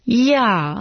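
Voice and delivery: startled "Já?" blurted out. Acted. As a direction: burst out in disbelief. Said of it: "vyhrkla Karolína".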